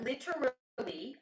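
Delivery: drawn-out, affected "literally"; influencer affectation. Real, not acted. Talking about New York people, influencer-style affected "literally". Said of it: "I said it like a, an asshole influencer".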